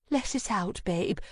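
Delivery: put-on calm her like a child; soothing. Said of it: "shushing me as if I were a young child".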